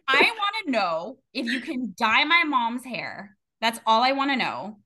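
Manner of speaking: retold firm demand, mildly angry; a touch of exasperated anger; pissed off. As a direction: insist on it, as if retelling a showdown.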